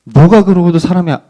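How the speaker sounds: taunting sneer at a man on a cross; mocking jeer. Mocker jeering at Jesus on the cross, lightly voiced mockery. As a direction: jeer at him like the mocking crowd. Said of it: "이렇게 놀렸다고요".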